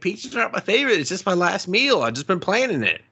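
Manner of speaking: put-on high, whiny put-upon old inventor; mock Finch. Finch whining at his friend to leave him alone. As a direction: squeak it out like a cornered hermit. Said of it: "He's like".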